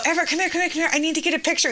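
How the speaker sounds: put-on high, laughing call to a child; retold eager calling. Mom re-enacts calling son back for picture, laughing. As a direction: call out urgently through amusement.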